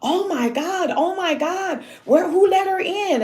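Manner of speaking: high frantic oh my God; lightly voiced panicked girls; girls panicking. Girls in the house freaking out, high and frantic.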